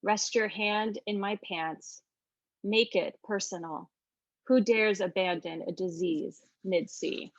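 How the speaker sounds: slow, measured poem reading; poetry reading. Shown as a demonstration. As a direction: read the poem slowly, weighing each line. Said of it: "and then my translation".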